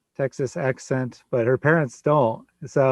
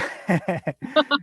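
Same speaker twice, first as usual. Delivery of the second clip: high laugh; 10 semitones higher than usual. Real, not acted. Laughs at compliment.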